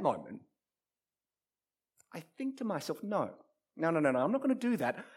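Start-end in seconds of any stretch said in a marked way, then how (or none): 3.0-5.0 rapid-fire string of refusals; quick self-refusal. Acted. Player thinks to himself about passing, quickly refusing. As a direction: dismiss the idea fast, talking to yourself. Preacher acting out his inner refusal.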